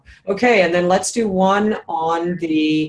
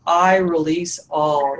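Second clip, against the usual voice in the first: "I release all" slow and savored; emphasis with slight elation; slower than usual. Shown as a demonstration. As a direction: draw out "I release all" with a touch of joy. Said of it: "elation or joy or emphasis".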